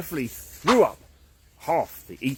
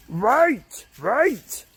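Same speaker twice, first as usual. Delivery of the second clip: high, loud call after someone; 10 semitones higher, 6 dB louder than usual. Acted. Caveman calling to his fleeing neighbour, loud. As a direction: stop them running off.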